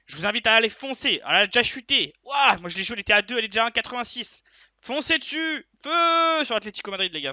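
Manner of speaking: high, loud rallying cries; hyped urging. Real, not acted. Tipster urging viewers to pile on Atlético, hyped shouting.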